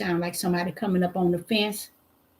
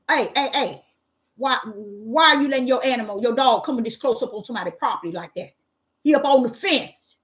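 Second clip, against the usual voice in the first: retold confrontation. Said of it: "So my reaction was".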